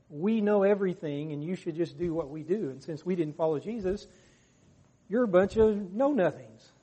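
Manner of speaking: lightly acted know-it-all leaders; a touch of haughty dismissal; mild mock superiority. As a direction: talk down to the ignorant crowd. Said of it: "they knew more than anybody else".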